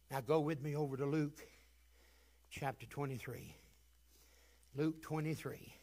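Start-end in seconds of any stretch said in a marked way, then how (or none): none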